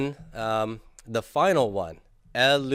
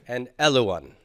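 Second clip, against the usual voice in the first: 1 laughing finish; 4 dB louder than usual. Shown as a demonstration. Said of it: "practice reading".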